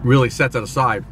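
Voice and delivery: talking between bites; muffled chewy speech; mouth full, chewing. Real, not acted. Seen 0: Bit burger at -1; holds it, lips working through the labelled words.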